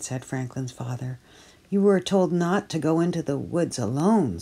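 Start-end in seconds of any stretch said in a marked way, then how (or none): 1.7-4.4 scolding. Acted. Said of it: "scolded his mother".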